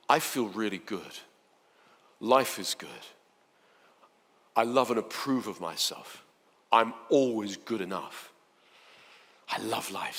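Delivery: soft, unhurried affirmations; feel-good voice. Shown as a demonstration. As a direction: say it as if you truly believe it. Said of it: "in a voice that, uh, feels good".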